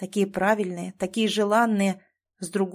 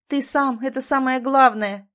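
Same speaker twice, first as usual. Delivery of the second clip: higher, louder exclamation; exclaiming; 4 semitones higher, 5 dB louder than usual. A narrator's reading. Wife exclaims to husband, loud and high. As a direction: burst out with conviction. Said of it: "воскликнула она".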